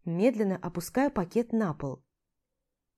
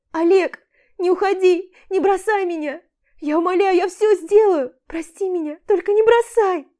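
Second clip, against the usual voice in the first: громкая высокая мольба сквозь слёзы; умолять в панике; истеричная мольба; 10 semitones higher, 10 dB louder than usual. A narrator's reading. (Аля в истерике умоляет Олега не уходить)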